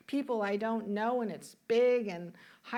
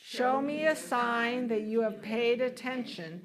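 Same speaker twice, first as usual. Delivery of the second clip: measured, deliberate affirmation in phrases; leading group recitation. Shown as a demonstration. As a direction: lead the congregation through it phrase by phrase. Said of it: "Why don't you say this with me".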